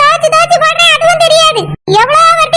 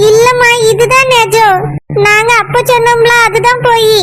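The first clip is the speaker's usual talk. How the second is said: put-on child's voice; 5 semitones lower than usual. Child pleading with mother.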